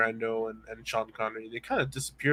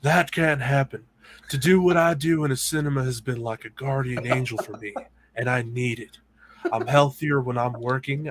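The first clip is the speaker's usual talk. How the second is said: slow, drawn-out mock Nick Cage delivery; doing Nick Cage for a friend, slow and dramatic; Nick Cage impression. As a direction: lean into a hammed-up Nicolas Cage reading, slowly. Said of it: "Nick Cage".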